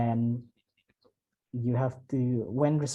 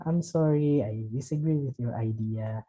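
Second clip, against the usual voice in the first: apologetic tone. Shown as a demonstration. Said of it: "Use a, uh, apologetic tone".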